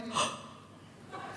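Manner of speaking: a sharp mock gasp of surprise; surprised gasp. Pulling a surprised face for her fella, gasping. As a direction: gasp as if shocked. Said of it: "Surprised, and I went".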